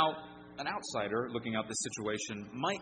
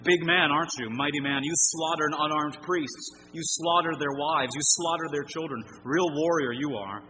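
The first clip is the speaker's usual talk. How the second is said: sarcastic, much louder taunting; loud mockery; 3 semitones higher, 7 dB louder than usual. David mocking Doeg the murderer, in a loud sarcastic jeer. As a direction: jeer at a so-called mighty man. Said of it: "And David mocks Doeg".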